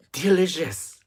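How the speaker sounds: breathy, intense whispered "delicious". Real, not acted. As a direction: savor it in a loud whisper. Raving about the fries.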